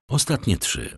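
mildly nonchalant reply; careless. A narrator's reading. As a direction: toss it off casually. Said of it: "odpowiedział niedbale Monte Cristo".

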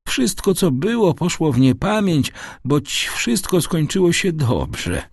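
put-on high old man's voice, gently consoling; gentle smile. A narrator's reading. Father saying all ended well, gently reassuring. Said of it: "uśmiechając się łagodnie".

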